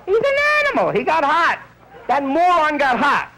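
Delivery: high falsetto disgust, slowing at the end; disgusted nurse. Retold or imitated. Nurse condemning the horny patient in a high falsetto. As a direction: spit it out like a prim nurse.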